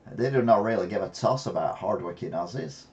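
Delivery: a loose Aussie accent that drifts to Texan; mock Australian accent. Shown as a demonstration. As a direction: try a bad Australian accent. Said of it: "That's my Australian accent".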